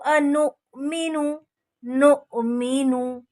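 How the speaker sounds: अनुमिनु with a sharp catch on the hamza; glottal jerk on hamza. Shown as a demonstration. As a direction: give a jolt at the hamza in अनुमिनु. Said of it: "यहाँ पे मैंने झटका दिया है". (हमज़ा पर झटका)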